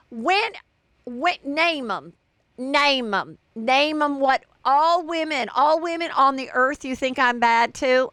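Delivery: high-pitched, imitated demand; mock indignant challenge. Sutton demanding names from Erica, mock indignation. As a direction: act out an affronted challenge, starting very high.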